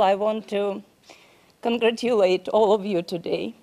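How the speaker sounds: holding back tears, breath catching midword; emotional. Real, not acted. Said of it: "I'm emotional".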